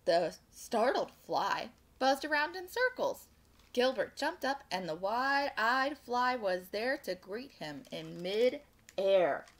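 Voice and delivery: animated storytime narration; picture-book read-aloud; children's story reading. A narrator's reading. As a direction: read it to little listeners with lilting emphasis.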